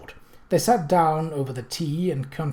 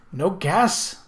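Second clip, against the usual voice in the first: much higher and louder, indignant; angry demand; 8 semitones higher, 4 dB louder than usual. A narrator's reading. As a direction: demand it of her mistress. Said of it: "Missus Pratt demanded angrily".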